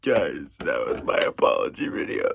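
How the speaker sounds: half-joking shouted sign-off; mock shout. Real, not acted. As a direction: bark out the punchline. Jokey sign-off of apology video.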